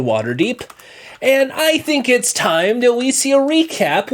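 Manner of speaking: rising announcer build-up; dramatic recap intro. Pretend. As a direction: tease the recap like a TV host.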